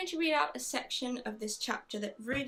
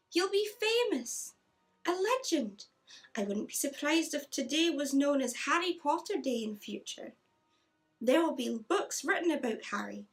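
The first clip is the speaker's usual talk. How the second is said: higher, louder put-on Scottish accent; 4 semitones higher, 3 dB louder than usual. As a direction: read it in a Scottish accent as McGonagall. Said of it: "my terrible Scottish accent".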